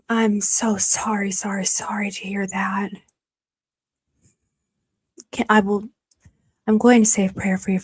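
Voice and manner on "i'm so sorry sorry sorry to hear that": whispered sympathy. Real, not acted. Viewer's brother was killed.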